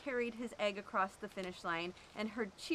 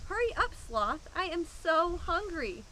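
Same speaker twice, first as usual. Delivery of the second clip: higher, louder hungry whine; impatient whine; 6 semitones higher, 4 dB louder than usual. Acted. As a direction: hurry him along, complaining. Impatient classmate in line.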